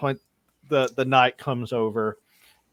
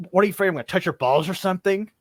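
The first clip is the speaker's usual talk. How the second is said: teasing challenge; 7 semitones higher, 4 dB louder, much faster than usual. Acted. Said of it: "he said".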